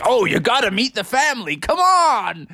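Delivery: high, pushy invitation; eager Bubby. Acted. Bubby urges him to bear country, high and eager. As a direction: pitch it up high and insist. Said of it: "be like".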